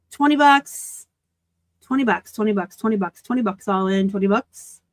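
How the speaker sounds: rapid-fire auction chant; auctioneer. Pretend. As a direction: rattle off bids like an auctioneer. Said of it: "Feel like an auctioneer".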